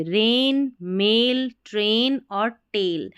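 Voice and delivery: रेन मेल ट्रेन टेल with ai as a long ay, slow. Shown as a demonstration. Teacher models ai as a long a, slowly. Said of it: "एआई को ए करके".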